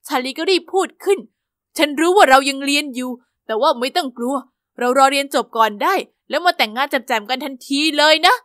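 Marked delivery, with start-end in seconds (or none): 1.8-8.3 put-on boyfriend reassuring. Charlie reassures, lower voice.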